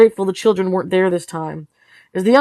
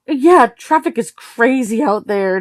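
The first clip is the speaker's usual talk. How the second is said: forced and high; 5 semitones higher, 3 dB louder, slower than usual. Acted. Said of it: "high-pitched and forced".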